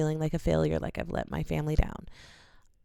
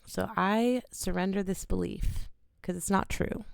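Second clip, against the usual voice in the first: close to tears. Real, not acted. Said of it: "like, about to cry".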